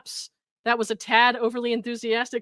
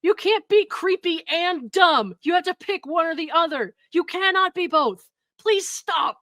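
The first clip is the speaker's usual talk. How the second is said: higher, louder, slowed-down disbelief; exasperated rant; 6 semitones higher, 5 dB louder than usual. Real, not acted. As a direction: scold him like he must stop now. Exasperated outburst at creepy message.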